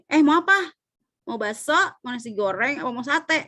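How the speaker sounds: casual asking, lifting on 'bakso' and 'goreng'; option-question intonation. Shown as a demonstration. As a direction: list the choices with a rise on bakso and on goreng. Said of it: "kadang-kadang kamu nanya gini".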